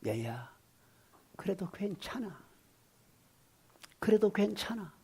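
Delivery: put-on soft, gentle comforting of a child; gently whispered "그래도 괜찮아"; tender reassurance. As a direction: hush it down like soothing a little one. Gentle words children want to hear.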